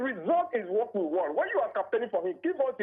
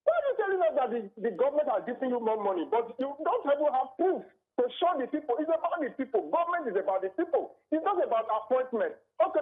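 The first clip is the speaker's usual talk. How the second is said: frustrated; 3 semitones higher than usual. Real, not acted. Caller venting about appointees.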